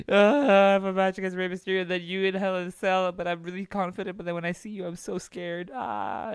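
very high, fast, squeaky parody voice of a cocky-then-scared wrestler; mocking scared Seth. Seth boasting then quaking before The Fiend, squeaky mock voice. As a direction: squeak it out like a nervous cartoon. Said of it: "He's like".

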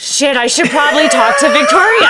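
laughing quote. Retold or imitated. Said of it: "So I'm like".

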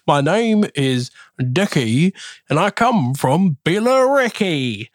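a light put-on Essex accent, quoting the listener; lightly voiced Essex accent in the listener's own words. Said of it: "How's your Essex?".

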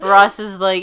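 laughing through the words; giggling as you tell it; laughing at the memory. Real, not acted.

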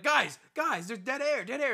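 lightly hammed-up alarm; hint of panicked Squid. Friend imitating Squid filling silence, mock panic. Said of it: "be like".

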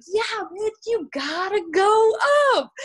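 high, loud and drawn-out teasing; coach's teasing call. Retold or imitated. Coach goading her up a pole, high and gleeful. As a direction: stretch the go out, gleefully mocking.

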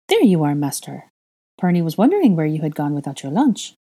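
eager little house elf; lightly voiced, cheerful servant elf.

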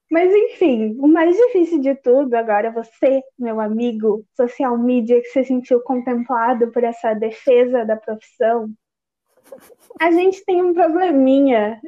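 talking around a candy in the mouth; sucking candy. Real, not acted. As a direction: speak with a hard candy in your cheek. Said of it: "eu tô chupando bala enquanto eu falo".

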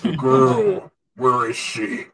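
tries solemn but cracks up; solemn line lost to giggles; solemn voice breaking into laughter. Acted. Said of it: "just as solemnly as you can".

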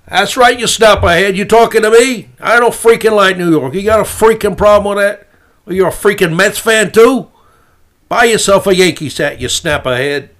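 loud, high, hammed-up New York accent; fake New York accent. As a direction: bark it like a pushy, mock New Yorker. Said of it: "my fake New York accent".

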